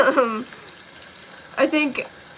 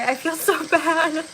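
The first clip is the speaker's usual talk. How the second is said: laughing apology; 3 semitones higher, slower than usual. Real, not acted. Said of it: "I can't stop laughing at it".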